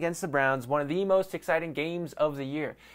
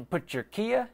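laughing ad reread; 8 semitones higher than usual. Acted. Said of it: "that was terrible".

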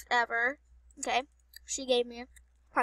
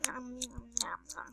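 chewing noises; 10 dB quieter than usual. Shown as a demonstration. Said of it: "I'm chewing gum".

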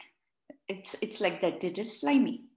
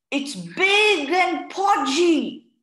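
put-on high, slow child voice; child's voice; 7 semitones higher, 8 dB louder, much slower than usual. A narrator's reading. Akif describes frog in high slow child voice. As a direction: sound like an eager little boy. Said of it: "said Akif".

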